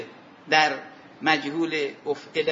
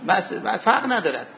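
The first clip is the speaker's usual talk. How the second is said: chuckling through the words; amused, laughing aside. Real, not acted. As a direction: laugh it off lightly. Laughs while explaining rule.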